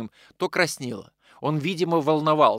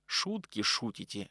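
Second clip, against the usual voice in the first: хрипло; 3 semitones lower, 8 dB quieter, slower than usual. Acted. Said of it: "хрипло произнёс он".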